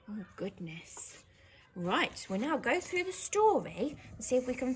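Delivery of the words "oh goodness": gasp. Real, not acted. Teacher reacts after scene.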